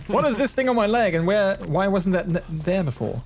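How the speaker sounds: startled. Real, not acted. Freaks out about leg.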